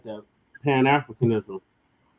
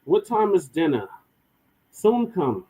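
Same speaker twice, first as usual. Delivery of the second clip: mock African accent; 5 semitones higher than usual. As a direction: brush the question off. Mock dinner question and reply.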